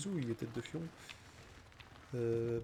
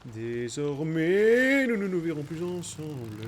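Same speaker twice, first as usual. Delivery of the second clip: dramatic hero voice; 6 dB louder, slower than usual. Pretend. Dramatic pronouncement, loud slow.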